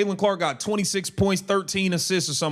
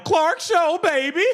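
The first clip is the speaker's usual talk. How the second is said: hype; 11 semitones higher than usual. Real, not acted. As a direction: shout it out like a big highlight. Hyping a made three.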